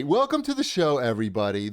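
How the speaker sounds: high, bright host greeting; host welcome. Acted. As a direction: sell the welcome.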